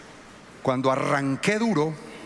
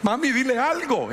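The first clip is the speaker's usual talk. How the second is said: daughter urging mom; 11 semitones higher than usual. Retold or imitated. Pastor voices daughter urging her mother, high childlike voice. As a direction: nudge mom to speak, childlike.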